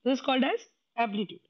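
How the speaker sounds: slow, each word set apart so the class can copy it; slow drilled definition. Shown as a demonstration. Teacher drilling the class on the term, slow and deliberate. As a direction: spell it out slowly for the students. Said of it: "What is it called?".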